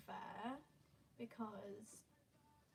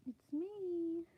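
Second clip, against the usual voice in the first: higher, louder repeat of the greeting; calling out; 6 semitones higher, 5 dB louder than usual. Real, not acted. Streamer announcing herself to nobody, called out. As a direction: call it out again, a bit higher.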